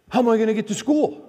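put-on high, pleading teen whine; whiny son. Son asking his dad how he'll get to school, whiny. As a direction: plead like a stranded senior. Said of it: "He goes".

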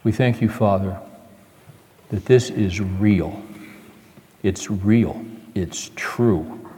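low, soft, slow prayer; quiet prayer. Real, not acted. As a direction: pray gently and reverently. Closing prayer.

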